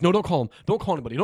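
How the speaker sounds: mildly acted, insistent refusal; urgent protest. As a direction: quote someone urgently objecting. Retold urgent plea in a scene.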